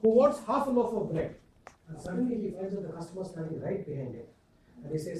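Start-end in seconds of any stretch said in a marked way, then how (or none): 0.0-1.3 irritated. Retold or imitated. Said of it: "so irritated".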